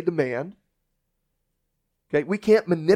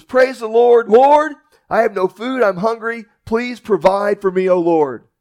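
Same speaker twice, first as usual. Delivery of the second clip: loud prayer; 6 semitones higher, 6 dB louder than usual. Acted. Old lady praying aloud.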